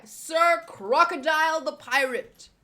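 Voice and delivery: loud, emphatic chapter title; big showy title read; title announcement. Acted. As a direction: announce it with a punch on SIR.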